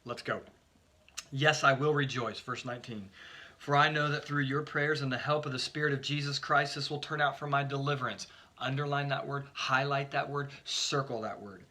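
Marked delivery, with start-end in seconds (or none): 1.3-8.3 emphatic, louder Bible reading from the pulpit; scripture reading. Acted. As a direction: read the verse out with conviction. Reads scripture aloud.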